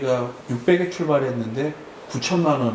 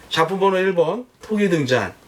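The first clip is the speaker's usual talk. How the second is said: lively raised auction calling; auctioneer call; 3 semitones higher than usual. Shown as a demonstration. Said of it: "시범을 한번 보여드려 볼게요".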